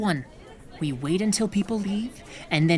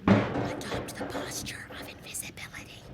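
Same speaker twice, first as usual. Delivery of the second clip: hushed whisper; 11 dB quieter than usual. Acted. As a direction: keep it hushed while hiding. Whispering while someone enters.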